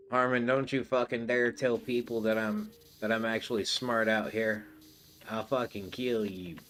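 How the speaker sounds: mock Southern buddy threatening a friend; southern accent. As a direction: put a touch of Southern twang on Freezy. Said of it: "make Freezy sound southern every time I do an impression".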